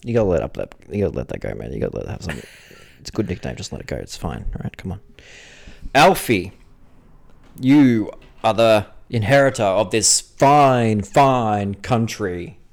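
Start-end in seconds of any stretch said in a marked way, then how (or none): 5.9-12.6 slow, louder grand address; grand proclamation. Acted. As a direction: proclaim it to Alfie like a founding father. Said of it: "He's like".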